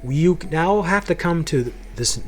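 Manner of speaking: lightly acted incredulous objection; incredulous parents. Parents reacting to his wish to change halls, incredulous.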